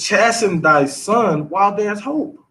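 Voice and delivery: slow and deliberate, each word weighed; slow scripture emphasis. Shown as a demonstration. Pastor drawing out the verse for the young father, slow. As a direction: let the verse sink in, slowly. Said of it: "Read it again".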